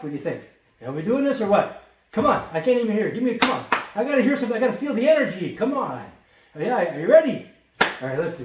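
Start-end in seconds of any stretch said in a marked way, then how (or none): 0.8-7.5 louder and higher, rallying the audience; pumping up the crowd. Real, not acted. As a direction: get them fired up, come on. Hyping up the viewers.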